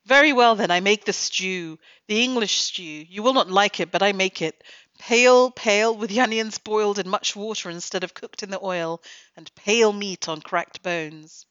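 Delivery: mock-indignant Italian cook giving in; huffy Italian accent. Critic reading the cook's outburst about English stew, hammed-up Italian accent. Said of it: "hysterical Southern Europeans".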